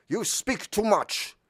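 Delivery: looming stranger rebuking the talkative crew; mysterious voice. Acted. Unseen voice scolding the crew, slow and high. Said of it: "said the voice".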